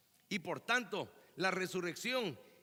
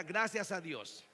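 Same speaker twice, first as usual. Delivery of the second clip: firmer, slowed call to repeat; prompting the congregation; slower than usual. Shown as a demonstration. Preacher wants to hear the congregation say it, firm prompting. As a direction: lead the response slowly, wanting to hear it back. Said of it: "quiero oírlo".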